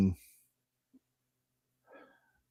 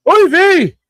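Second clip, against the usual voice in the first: put-on high, loud Yiddish-accent Oy vey; 12 dB louder than usual. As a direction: cry it out like a Yiddish grandma. Mock Yiddish exclamation, very high.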